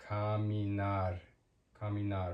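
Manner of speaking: "caminar" starting with a k sound; hard c. Shown as a demonstration. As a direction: say "caminar" as kah-mee-NAR. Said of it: "hard sounds like ka".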